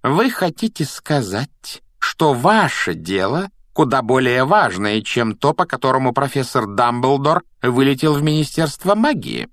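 restrained outrage; barely controlled anger. A narrator's reading. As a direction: build a pointed rebuke, holding back. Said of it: "она уже вне себя и лишь усилием воли держит себя в руках".

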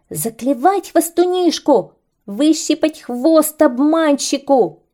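high, loud battle cry; rally the flock to attack; birds shouting. Acted. Birds call each other to attack the kite, high and loud. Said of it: "закричали птицы".

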